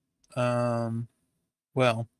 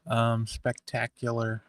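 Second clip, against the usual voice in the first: dry sarcasm; 2 semitones lower than usual. Real, not acted. Sarcastic answer to how are you.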